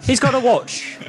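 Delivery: high, loud amused disbelief. Real, not acted. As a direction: repeat it in laughing disbelief. Repeating player's line in disbelief.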